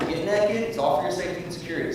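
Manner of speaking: high mock order from camp guards; mocking guards ordering prisoners to the camps. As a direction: parrot the guards' command with scorn. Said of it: "They said".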